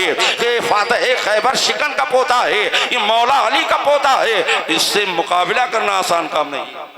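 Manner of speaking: full-voiced rousing sermon delivery; impassioned preaching. Preacher warns not to take the young warrior lightly, impassioned preaching.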